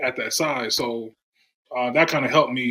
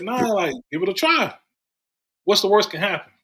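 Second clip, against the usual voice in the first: higher-pitched retold plea for a chance; coaxing, come-on-let-me-try tone; retold persuading; 7 semitones higher than usual. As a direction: talk them into it, voice lifted. Retold pleading with coach for a chance.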